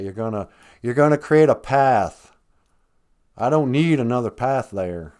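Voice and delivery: put-on southern-accented redneck elder laying down the law. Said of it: "I guess it was the redneck elders".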